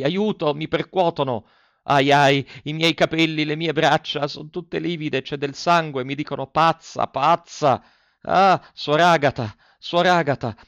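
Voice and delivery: put-on high, loud, frantic cries of a girl dragged away in panic; terrified delirium. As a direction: scream for help as if being hauled into a madhouse cell.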